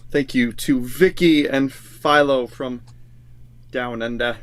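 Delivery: playful mock Australian accent on "Down Under"; slow, hammed-up Australian twang. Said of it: "That's my Australian accent".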